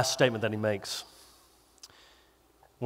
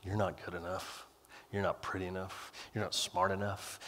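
enemy's whisper; 8 semitones lower, 17 dB quieter than usual. Acted. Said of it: "a voice that says".

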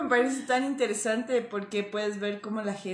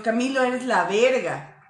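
slower, admiring tone, lighter on verga; praising, admiring. Shown as a demonstration. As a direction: say it as real praise to a friend. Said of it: "es como que, "Ah, soy la verga". (en tono de halago, admirando a Camilo)

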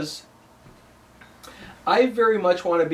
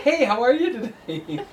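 mock greeting; 6 semitones higher than usual. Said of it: "Hi, pool guy".

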